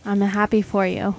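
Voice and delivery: dry mock congratulations; sarcastic. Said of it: "The sarcasm is thick".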